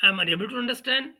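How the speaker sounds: slow, dragged-out parody of the commentator; mocking imitation. Host mocking the Pakistani commentator's confused reply, slow parody. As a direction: drawl it back at him like a fool.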